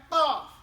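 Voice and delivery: LAW from the back of the mouth, as if swallowing it; loud LAW, swallowed at its start; swallowed sound. Shown as a demonstration. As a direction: gulp the opening of LAW. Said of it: "Like I'm swallowing it".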